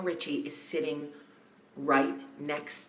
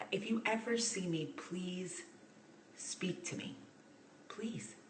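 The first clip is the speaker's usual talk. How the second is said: pleading hush; 3 semitones higher, 9 dB quieter than usual. Real, not acted. Begging fans to say hi.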